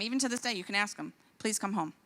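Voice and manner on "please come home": pleading. Retold or imitated. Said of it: "And I beg them".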